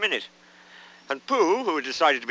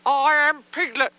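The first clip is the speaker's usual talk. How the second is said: high, slow, loud Piglet squeal; loud insistence; 5 dB louder, slower than usual. A narrator's reading. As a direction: proclaim your name in a high little voice. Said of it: "said Piglet loudly".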